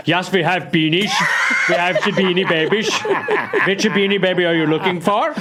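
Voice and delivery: German shop clerk. Acted. Host voices German beanie shop.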